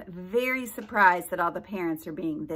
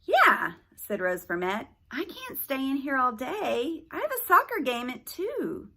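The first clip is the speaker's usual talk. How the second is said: put-on high whiny girl; 5 semitones higher than usual. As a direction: complain like an impatient girl. Girl character complains.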